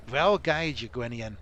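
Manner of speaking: a gruff dwarf leader, mock accent, urgent; dwarf commander. Dwarf captain warning Gwinion of disaster, in a mock dwarf accent. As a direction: warn the hero of disaster like a worried dwarf captain.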